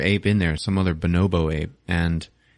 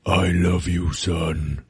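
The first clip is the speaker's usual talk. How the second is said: solemn, halting ape father; tender words in a heavy, put-on voice; Caesar; 2 semitones lower, much slower than usual. Caesar embraces his son.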